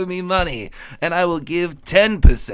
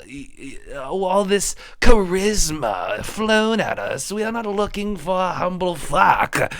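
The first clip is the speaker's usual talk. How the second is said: blustering adventurer; 3 semitones higher, 3 dB louder than usual. Acted. Improv character blustering adventurer.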